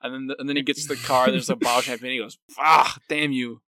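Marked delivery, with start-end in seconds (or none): 2.6-3.6 slow, louder mock curse; retold exasperated curse. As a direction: draw out a mock-angry curse. Acting out his exasperated curse.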